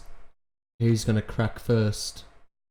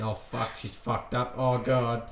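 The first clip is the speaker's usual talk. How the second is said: much softer panicked inner mutter; 5 dB quieter than usual. Retold or imitated. Coulter panicking inwardly at the girl's slip, hushed. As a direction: mutter her panic under your breath. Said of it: "she's saying".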